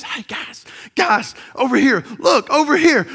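calling out to the sound guy; calling from far away. Shown as a demonstration. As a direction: call across the room to get attention. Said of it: "you may see me going like this".

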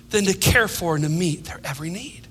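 a tender whisper about caring for his sheep; soft whisper. Real, not acted. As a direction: drop to a whisper as you finish. Tender hushed close of thought.

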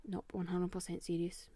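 earnest hushed whisper; whispered ghost confession. Real, not acted. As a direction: lean in and whisper it. Swearing it's true about ghost.

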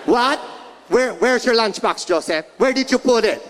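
mock mom yelling. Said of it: "Two and a half hours of yelling".

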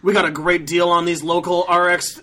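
engine-noise opener into a sales pitch; car dealer ad. Acted. Dealer advertising Mazda deals, drawn-out announcer pitch. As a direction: stretch the dealership name like an announcer.

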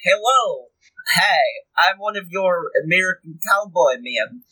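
put-on slow, drawn-out Israeli-accented greeting; Israeli dad accent. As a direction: play an Israeli grandpa posing as a cowboy, Israeli accent. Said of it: "Israeli dad or grandpa".

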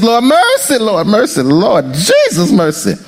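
urgent, pleading cries of mercy to God; pleading prayer. Acted. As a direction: beg the Lord for mercy, pressing. Pleading prayer mid-sermon.

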